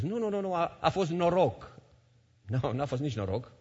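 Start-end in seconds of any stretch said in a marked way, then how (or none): 0.0-1.8 Satan dismissing, pitched higher, last words slowed; lightly voiced tempter waving it away; mock Satan voice. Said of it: "a venit Satana și a spus". (Satana batjocoritor, ușor jucat)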